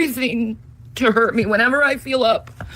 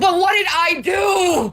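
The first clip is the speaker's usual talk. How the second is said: pleading shout; 4 semitones higher, slower than usual. Real, not acted. Pleading in a fight.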